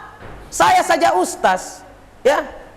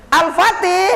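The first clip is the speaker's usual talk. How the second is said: Al-Fatih called with more punch; rally the crowd on Al-Fatih; spirited motto cheer; slower than usual. Shown as a demonstration. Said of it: "Kurang, kurang greget".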